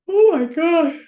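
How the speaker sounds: high, loud oh my God; excited exclaim. Real, not acted. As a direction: blurt it out in delight. Exclaiming about her yawning habit.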